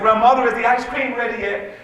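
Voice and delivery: calling loudly across the house; child hollering for ice cream. Retold or imitated. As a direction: shout to grandmother in the next room. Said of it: "I hollered out".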